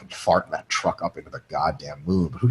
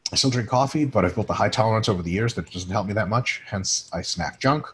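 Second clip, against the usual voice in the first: reading a question; 2 semitones higher than usual. Acted. Host reading a trucker's letter on a podcast, in a reading voice. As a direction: read the trucker's message out to the audience.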